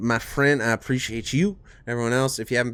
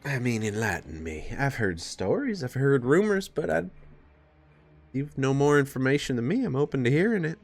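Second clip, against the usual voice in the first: put-on southern accent; 4 semitones higher than usual. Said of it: "stuck in this southern accent".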